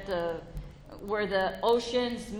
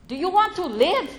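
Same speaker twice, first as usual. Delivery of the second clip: mild doctor; 8 semitones higher, 5 dB louder than usual. Retold or imitated. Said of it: "she's like".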